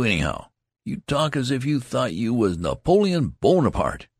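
indignant. Acted. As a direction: build to an offended outburst. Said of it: "exclaimed the loud soldier indignantly".

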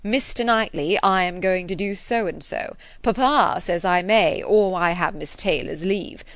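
Knightley mimics young Emma's saucy tone; saucy girl. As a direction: tease him like a cheeky child. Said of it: "with one of your saucy looks".

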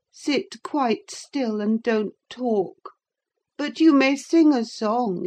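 languid little tyrant; a hint of a demanding invalid. A narrator's reading. Linton ordering Catherine to sit and sing, high and spoilt.

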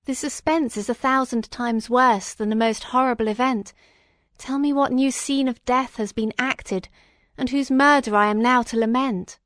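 agitated plea. Acted. Sick prisoner begging the magistrate for news, agitated. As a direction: plead anxiously to hear the worst. Distressed patient demands the news.

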